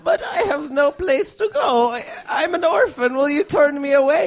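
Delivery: lightly voiced orphan child begging; Chicago child accent. Orphan pleading with the podcast host, mild Chicago kid voice. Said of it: "That was my Chicago child accent".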